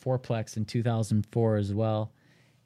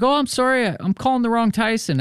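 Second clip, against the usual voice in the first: voicing the client; 12 semitones higher than usual. Client apologizing for wrong number.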